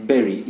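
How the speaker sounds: "Bury" rhyming with very; berry pronunciation. Shown as a demonstration. Teacher asking what he said, berry pronunciation. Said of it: "It is not bury".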